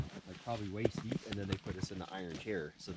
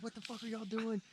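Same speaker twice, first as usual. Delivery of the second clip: retold disbelief; 12 semitones higher, 4 dB quieter than usual. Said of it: "the other guys were like".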